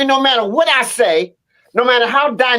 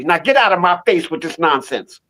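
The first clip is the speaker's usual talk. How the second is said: lion's dismissal, lower and firm; "Now get out of my face with this nonsense" as a lightly voiced king lion, lower; dismissive lion; 5 semitones lower than usual. Storyteller's lion dismissing the donkey, lower and firm. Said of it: "I'm gonna punish you".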